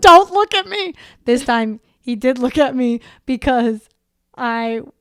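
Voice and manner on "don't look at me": high, very loud yelling. Retelling throwing up in a past situation: imitating someone yelling.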